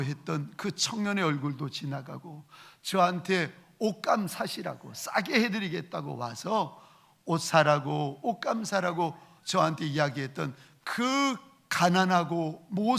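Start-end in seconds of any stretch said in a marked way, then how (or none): none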